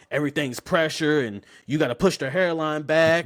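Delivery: lively, casual barber patter; talking like himself. Retold or imitated. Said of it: "And I'm talking like me".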